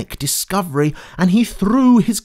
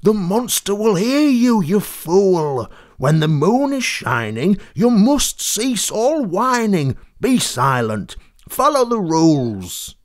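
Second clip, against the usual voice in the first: nervous herd warning George to hush; frightened cows; 2 semitones higher than usual. Acted.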